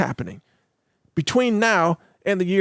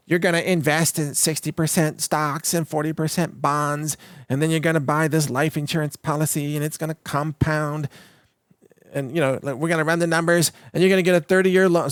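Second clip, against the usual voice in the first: lightly put-on monotone planner patter; annoying financial planner. Host mocking financial planners' sales talk, mildly annoying drone. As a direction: drone through it like a boring planner. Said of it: "sorry to use this annoying voice".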